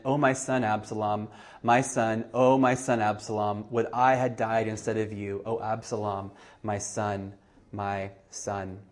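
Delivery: understated weeping king; mild grieving lament. Acted. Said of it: "and wept".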